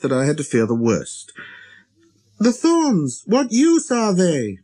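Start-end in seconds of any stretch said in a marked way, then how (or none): 2.4-4.6 high, drawn-out insistent question; little prince, insistent. A narrator's reading. Little prince repeating his question to the busy pilot, insistent. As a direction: insist on it, high and slow at the end. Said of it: "never let go of a question".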